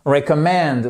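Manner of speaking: "Recommend" stressed on MEND; "Recommend" with main weight on the last syllable; stress on final syllable. Shown as a demonstration. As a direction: lean on the end of "Recommend". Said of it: "notre accent tonique qui est juste là".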